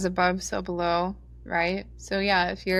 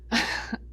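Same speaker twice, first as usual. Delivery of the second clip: dark laugh. Real, not acted. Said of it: "it's kind of dark laughter".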